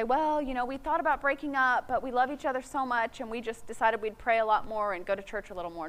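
lightly voiced couple making excuses; imitating a couple justifying themselves. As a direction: rattle off a mild, reasonable-sounding excuse. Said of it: "they'll say".

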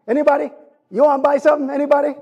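put-on Jamaican market vendor calling out for buyers in a light Jamaican accent. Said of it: "in my Jamaican accent".

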